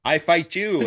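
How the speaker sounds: overdone stilted movie-dub line; over-articulated dubbing. Retold or imitated. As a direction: lightly mimic a badly dubbed actor. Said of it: "I sound like a bad dubbed movie".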